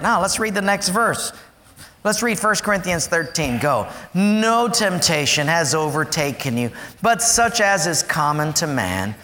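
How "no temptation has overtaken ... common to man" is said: slow, measured Bible reading; solemn slow reading of scripture. Acted. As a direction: read the verse with weight. Reads scripture aloud.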